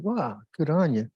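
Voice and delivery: wow swooping up high, then easing down; delighted for someone, lightly acted; admiring appreciation. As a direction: congratulate them with a rising wow. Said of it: "I'm like".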